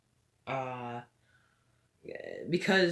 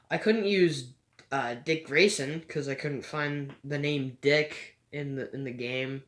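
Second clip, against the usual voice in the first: stumbling over the words; halting stutter. Real, not acted. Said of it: "I'm stuttering a lot".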